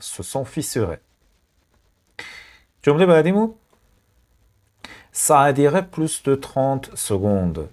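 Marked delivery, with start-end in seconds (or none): 5.3-7.6 slow, careful French read for learners; slow dictation. Shown as a demonstration. Teacher reading to learners, slow careful read. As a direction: draw the sentence out slowly. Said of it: "teacher reads French sentence slowly".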